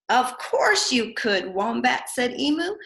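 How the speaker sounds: lively storybook voice for little ones; teacher reading a picture book aloud; reading to children. Acted. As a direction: read it brightly to preschoolers. Reads picture book to preschoolers.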